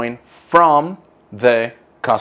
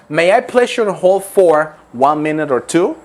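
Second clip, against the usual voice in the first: customer service voice; 4 semitones higher, 3 dB louder than usual. Shown as a demonstration. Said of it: "Another expression that you can use".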